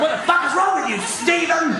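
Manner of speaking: high, hammed-up outraged sister-in-law; imitated freak-out. Brother's wife yelling at Stephen for screaming, freaking out. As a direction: scold him in a rising, high-pitched panic. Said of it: "she freaks out".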